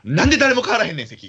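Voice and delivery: put-on half-joking drunken gripe at the others; mock drunken complaint. Drunk narrator complaining about seats. (酔っ払いの愚痴をまねて、高めに声を張る)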